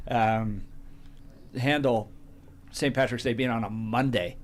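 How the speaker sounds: talking with a mouthful; words round a bite of food; mouth full. Real, not acted. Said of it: "Now we got my mouth full again".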